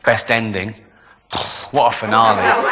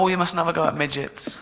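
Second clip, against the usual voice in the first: mock disapproval; 3 semitones higher, 6 dB quieter than usual. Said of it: "People go".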